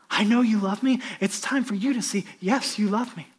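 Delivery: Jesus urging Peter, fervent then hushed; Jesus pleading with Peter, fading to a whisper; voicing Jesus. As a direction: call Peter back to work, ending in a whisper.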